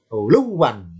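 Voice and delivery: ULUWAN with a doubled W, "uluw-wan"; merged double wawu. Shown as a demonstration. Teacher shows the fused form, doubled "uluw-wan". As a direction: close LU straight onto a held W in ULUWAN. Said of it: "dilebur jadi satu".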